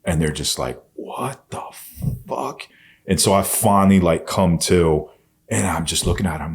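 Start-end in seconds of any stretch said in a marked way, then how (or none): 0.9-2.6 hushed, drawn-out disbelief, breath only; imitating stunned bystanders. Passers-by reacting to a street beating, stunned whisper. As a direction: act out onlookers whispering in shock.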